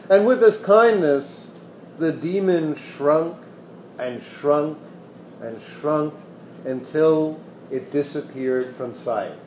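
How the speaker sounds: lively storytelling voice reading scripture; animated reading of a Buddhist parable; story narration. A narrator's reading. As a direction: tell the old tale to the room. Continues reading the sutta story.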